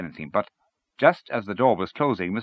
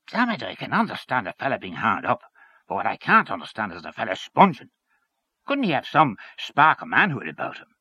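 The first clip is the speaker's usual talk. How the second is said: Henchy disapproving; 3 semitones higher, 3 dB louder than usual. Acted. Henchy judges Hynes in story.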